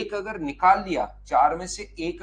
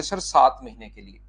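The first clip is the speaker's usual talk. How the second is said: mock student answer; 5 semitones lower, 4 dB louder than usual. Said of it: "तो आप कहोगे".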